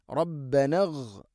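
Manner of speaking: slow, റബ്ബന flowing straight into ഇഗ്; joined hamza. Shown as a demonstration. Teacher showing how to join words, slow. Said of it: "ഇങ്ങനെ ഓതണം".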